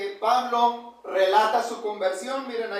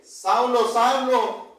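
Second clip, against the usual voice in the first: calling out; 4 dB louder, much slower than usual. Acted. Repite el llamado del Señor.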